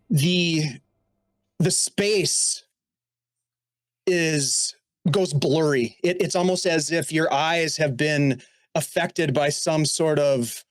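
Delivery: slow, measured scene-setting narration; game master narration. A narrator's reading. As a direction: paint the scene slowly for the players.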